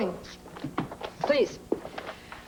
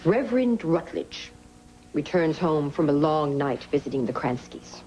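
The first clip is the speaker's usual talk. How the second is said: acting out every part while dictating. Shown as a demonstration. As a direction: speak all the voices aloud for the scribe. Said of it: "read that back to me".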